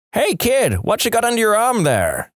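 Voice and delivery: high, hollered question across the yard; calling out. Acted. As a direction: yell it to a passing kid. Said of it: "He yells out".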